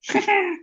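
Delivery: shrill high mocking cackle of a poltergeist. Peeves cackling at the caught students. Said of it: "Peeves cackled".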